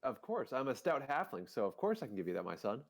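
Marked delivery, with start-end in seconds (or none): 1.5-2.8 deep voice. Acted. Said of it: "deep, deep throated like that".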